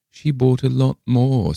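high, squeaked interjection; squeaky. A narrator's reading. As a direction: squeak it out like a fussy old lady. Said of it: "squeaked Miss Le Fane".

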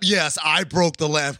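slow, deadpan sarcastic admission; mock confession dripping with sarcasm. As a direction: say it slowly as if it's absurd. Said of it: "through my very sarcastic tone".

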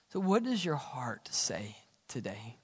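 whispered question to the congregation; soft unvoiced whisper. Real, not acted. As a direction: lean in and whisper it. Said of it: "preacher questions congregation intimately".

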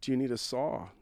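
imitated offer of help in a mild Spanish accent. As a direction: ask it with a hint of a Spanish accent. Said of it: "Spanish accent, I hear".

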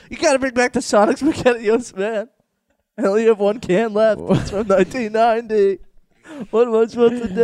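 pleading fan caller. Pretend. Fan begging SpaghettiOs to bring back the cans, pleading. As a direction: beg the company like a desperate fan. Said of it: "be like".

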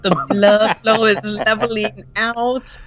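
slow, deliberate progress report; mock medical report. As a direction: pronounce the recovery slowly, word by word. Mock report on Travis's recovery.

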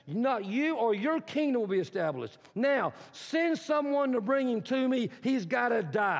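fierce shouted sentence; enraged king. Acted. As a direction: rage at the son, demanding death. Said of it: "Saul's anger flared up".

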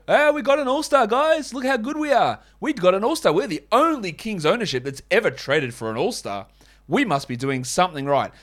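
high, loud, gloating owner voice; mocking smug owner. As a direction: brag like a clueless owner, pitched high. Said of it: "so we can say".

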